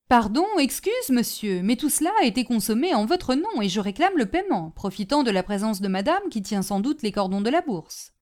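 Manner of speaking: mock-polite, sing-song insistence; lightly voiced wheedling porter; insistent porter. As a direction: press the claim with oily courtesy.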